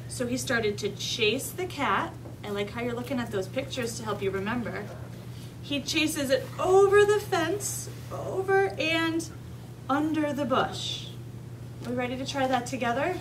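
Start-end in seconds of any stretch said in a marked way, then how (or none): 5.6-11.1 slow, drawn-out action words; animated story retelling. A narrator's reading. Teacher recapping the chase for children to act out, animated. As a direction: stretch each move of the chase.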